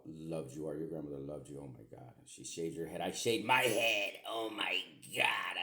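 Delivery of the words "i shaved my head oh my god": slow, raised, drawn-out disbelief; re-enacted shock. Dad telling daughter about her shaved head, re-enacted shock. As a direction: relive the shock, stretching the words out.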